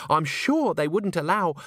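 high trilled reassurance; trilling. A narrator's reading. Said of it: "trilled Christine".

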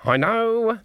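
high-pitched, hasty brush-off; impatient acknowledgement. A narrator's reading. Granny answers Nanny's urgent warning, impatient.

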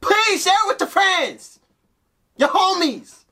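high, wailing mock plea; at wits end. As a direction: beg like it's life or death. Mock begging viewers to share.

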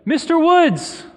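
drawn-out, high, loud call across a room; retold yell. Stranger calling to someone across the bank, yelling. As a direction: yell the name slowly, imitating someone calling out. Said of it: "start yelling".

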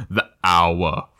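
ominous Aslan imitation. Co-host echoes Aslan's warning, ominous imitation. Mock repeat of Aslan's doom line.

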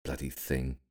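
soft, weary grumble; sighed grumble. A narrator's reading. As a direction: grumble it under a sigh. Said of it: "hit it, and sighed".

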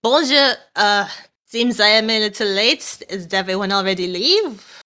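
calling out. Acted. Arriving late, greets the others, calling out in a French accent. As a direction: call out cheerfully in a French accent. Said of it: "clear her throat and then call out".

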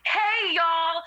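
high bright influencer hello; upbeat influencer greeting. Acted. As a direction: greet your followers on camera. Greeting her TikTok followers.

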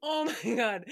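laughing aftermath. Real, not acted. Recovering from laughing fit.

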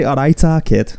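Manchester accent. Shown as a demonstration. Prompting co-host to say the catchphrase, Manchester accent. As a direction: model a Mancunian accent for someone to copy. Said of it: "please do a Manchester accent".

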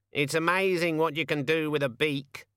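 a hint of a smug bird; cocky raven, pleased with itself; mildly croaky raven boast; lightly voiced raven. A narrator's reading. Raven speaks.

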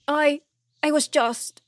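high, halting protest; faltering excuse. A narrator's reading. King trying to excuse himself, faltering.

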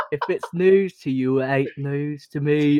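song lyrics in a mock British accent. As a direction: imitate a friend's British-accented singing. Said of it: "singing lyrics to a singer in a British accent".

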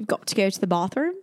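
attempted English accent, a little quick. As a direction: put on a playful English accent. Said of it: "do an English accent".

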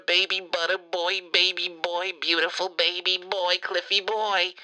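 put-on cooing baby talk, softened voice; doting baby talk. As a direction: gush over him like a baby. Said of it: "I can't stay mad at you".

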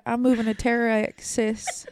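slow, hammed-up fake sob; mock crying. Teasing her friend about moving to Texas, slow mock sob. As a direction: whimper it like a pretend farewell.

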